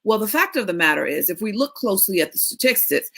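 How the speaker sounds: imitating a stiff expert. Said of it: "they get their expert voice".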